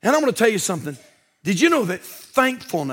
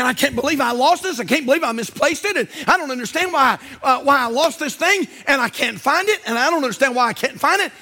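aggravated; 4 semitones higher than usual. Retold or imitated. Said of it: "And I'm thinking".

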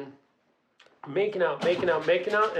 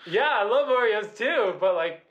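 nervous laughing; 6 semitones higher than usual. Retold or imitated.

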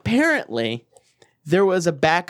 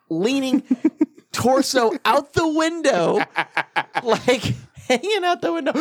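giggling through the words, slow; laughing helplessly while telling it; 6 semitones higher than usual. Real, not acted. Telling friends about puking from the truck, laughing.

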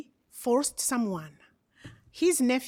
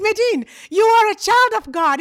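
joyful affirmation; 10 semitones higher, 10 dB louder, faster than usual. Retold or imitated. Friend's affirmation.

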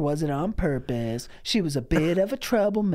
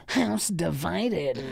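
slow dramatic; much slower than usual. Pretend. Slow dramatic tag line.

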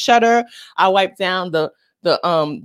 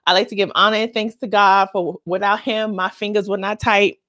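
mock rapper speech. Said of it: "You know how every rapper starts there".

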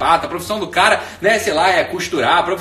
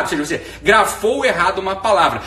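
ordinary talk

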